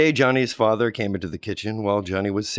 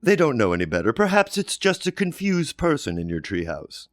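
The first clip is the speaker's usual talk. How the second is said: lightly voiced, a bit louder mom explaining; patient mother; 4 semitones higher, 3 dB louder than usual. Johnny's mother explains zombies aren't real, patient and motherly.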